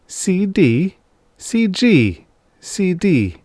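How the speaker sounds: high, dazed repeating; bewildered. Acted. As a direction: voice reeling in confusion. Initials spin in his mind.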